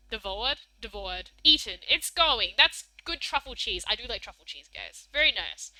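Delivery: ordinary delivery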